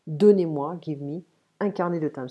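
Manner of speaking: loud blunt order; curt command. Shown as a demonstration. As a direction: demand it with no courtesy. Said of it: "I'm not respectful".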